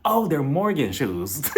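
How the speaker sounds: slow mock puzzlement with swooping pitch; annoying housewife, mocked. Housewife finds someone's shoes, slow mocking imitation. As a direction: imitate feigned discovery, drawn out. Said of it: "Kyle is so annoying".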